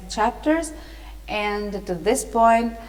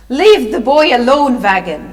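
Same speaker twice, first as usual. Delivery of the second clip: loud, forceful protest as Nancy; raised voice, sharp command to leave off; crying out; 9 dB louder than usual. A narrator's reading. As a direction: cry out to defend the boy. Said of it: "the girl cried".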